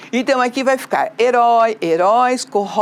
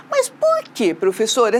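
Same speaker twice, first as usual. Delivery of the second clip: student's question. Acted. Pupil asking the teacher why, lightly acted puzzled question.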